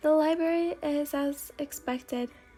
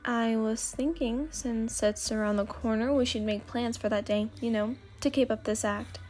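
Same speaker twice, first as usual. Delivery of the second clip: lightly voiced boy, tentative proposal; 3 semitones lower than usual. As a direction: slightly lower voice for the boy.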